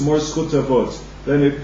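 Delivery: ordinary delivery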